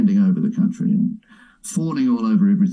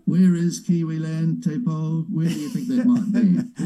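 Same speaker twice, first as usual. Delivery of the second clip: high, slow, teasing disbelief; mocking question; 5 semitones higher than usual. Real, not acted. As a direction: ask it like it's absurd. Mocking question after laughter.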